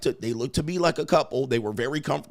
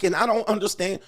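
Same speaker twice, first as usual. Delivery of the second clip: high, whiny mock complaint; mock date's high whine; mock whiny woman; 8 semitones higher than usual. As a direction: imitate her whining, pitched up. Mocking the woman on the date.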